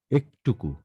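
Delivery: একটুকু as "ek-tuku"; closed 'e'. Shown as a demonstration. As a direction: say একটুকু with a narrow first "e". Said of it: "উচ্চারণটা হচ্ছে একটুকু". (একটুকু-র শুরুতে সংবৃত "এ")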